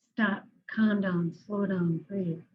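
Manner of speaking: slow, deliberate, steady self-command; calm self-talk. Shown as a demonstration. Therapist showing clients the calming words, slow and steady. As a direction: say it firmly and slowly, like coaching yourself. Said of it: "Repeat it over and over".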